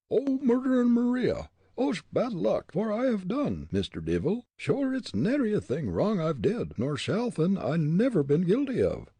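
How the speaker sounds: very high Irish wail; alarmed Irishman, starting at a high cry; frightened pleading. A narrator's reading. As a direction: plead innocence in panicked brogue. Terrified Irishman pleads with head.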